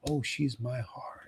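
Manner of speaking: breathy tender whisper. Acted. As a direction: whisper it like a secret of love. Lord speaks of his beloved.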